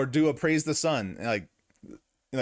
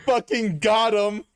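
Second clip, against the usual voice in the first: slow, louder gloating; gloating shout; 5 semitones higher, 5 dB louder, slower than usual. Real, not acted. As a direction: rub it in, triumphant. Gloating win over Anthony.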